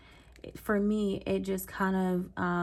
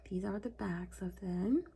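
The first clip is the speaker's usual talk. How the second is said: whispering; 5 dB quieter than usual. Real, not acted. Showing cards to camera, whispered.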